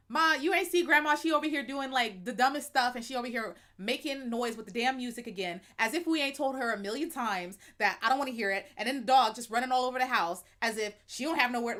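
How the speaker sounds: casual Black vernacular with family; family talk. Shown as a demonstration. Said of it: "the way that I speak with my family".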